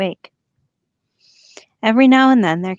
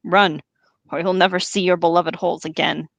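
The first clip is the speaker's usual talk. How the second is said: angry orc. Acted. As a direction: curse them like an angry sergeant. Orc Ugluk berating troops.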